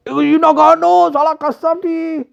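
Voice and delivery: high-pitched mocking exclamation; mock laughing ridicule. Noseless local mocks the newcomer, acted laughing disbelief. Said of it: "And he starts laughing".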